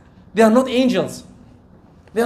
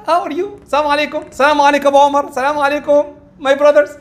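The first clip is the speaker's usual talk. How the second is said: high, cheery acted hello; smiling greeting; 5 semitones higher, faster than usual. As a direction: greet the brothers with a smile in the voice. Acts out greeting people with smile.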